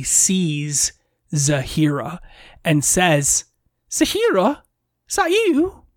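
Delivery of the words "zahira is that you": high Yorkshire woman's voice; Yorkshire lilt, pitched up high; Yorkshire accent. Acted. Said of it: "I think I can do a Yorkshire accent".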